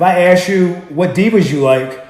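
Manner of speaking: wrestling promo voice. Acted. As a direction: hype it like a promo. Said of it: "so I'm raising my voice".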